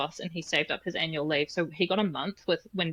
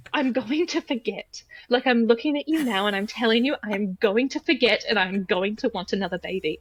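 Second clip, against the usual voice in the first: mildly imitating her sobbing insistence; retold tearful plea; 4 semitones higher than usual. Telling her husband she will forget, tearful and pleading. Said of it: "like, sobbing".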